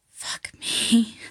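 breathy, voiceless stage whisper; retold whisper. Patient re-enacting for her doctor what she whispered to her boyfriend, breathy whisper. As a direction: act out a forceful whisper into a lover's ear. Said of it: "and I whispered".

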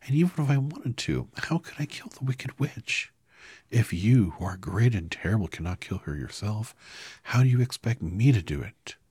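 put-on girl sobbing to the wizard. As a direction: cry the words out. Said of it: "she sobbed".

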